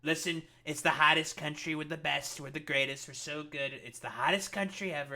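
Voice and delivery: lightly voiced Trump boasting; mock his stream of superlatives; a hint of a Trump impression; mocking Trump imitation. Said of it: "where he's just like".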